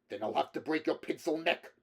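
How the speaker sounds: put-on high, loud Slavic-accented threat; angry threat. A narrator's reading. Android lunges for Rick's throat, angry threat.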